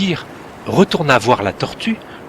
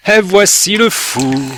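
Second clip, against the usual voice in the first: lightly voiced grumpy crab, slow and grumbling; 6 semitones higher, 4 dB louder than usual. A narrator's reading. The crab greets Timek with a slow grumble. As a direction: grumble it like a cranky old crab. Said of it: "grogna le crabe".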